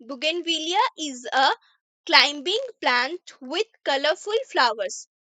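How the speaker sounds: slow, careful English read for learners; teacher reading an example sentence slowly; slow reading aloud. Shown as a demonstration. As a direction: read each word out slowly for the class.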